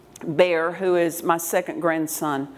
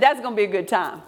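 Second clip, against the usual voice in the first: quick remark; faster than usual. Retold or imitated. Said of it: "I said".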